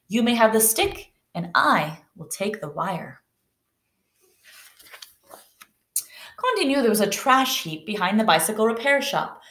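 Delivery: expressive read-aloud with lifted dialogue; lively storybook reading; story narration. A narrator's reading. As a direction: read a picture book to children, voicing the characters. Reads story aloud to class.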